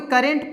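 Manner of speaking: करंट said as "ka-rent"; an "eh" in the second syllable of करंट; common mispronunciation. Shown as a demonstration. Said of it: "बहुत कोई करंट पढ़ते हैं".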